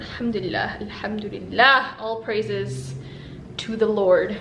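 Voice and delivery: soft, sincere gratitude; quiet prayerful thanks. Real, not acted.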